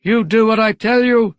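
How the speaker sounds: mayor losing his temper; screamed. A narrator's reading. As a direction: scream it at the subordinate. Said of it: "screamed the mayor".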